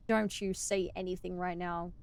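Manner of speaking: stern quiet mom warning; disapproving mom voice. Pretend. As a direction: warn like a disapproving mother. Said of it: "the disapproving mom voice".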